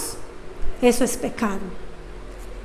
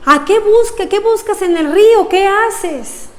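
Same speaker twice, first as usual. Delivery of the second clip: calling out; 5 semitones higher than usual. Retold or imitated. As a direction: shout to the friend drifting upstream. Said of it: "y le grita".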